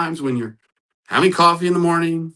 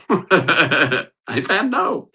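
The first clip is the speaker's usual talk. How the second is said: rueful laugh; 4 semitones higher, much slower than usual. Real, not acted. Admits spouse answered no.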